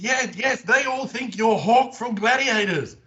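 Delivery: imitating the guide, high and emphatic; tour guide insisting. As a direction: convince him he's Hawk. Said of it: "She said".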